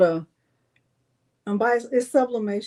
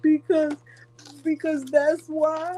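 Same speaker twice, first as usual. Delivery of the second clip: sassy answer; 7 semitones higher, slower than usual. Retold or imitated. Kid's stubborn answer retold.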